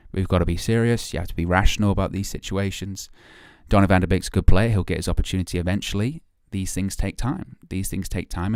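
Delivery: a calm pundit's lecture in a deepened voice; Flex impression. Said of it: "That's the flex impersonation".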